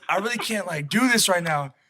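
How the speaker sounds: mildly mock-bored plea; bored buddy. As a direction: imitate a friend fed up with boredom. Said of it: "he was so bored".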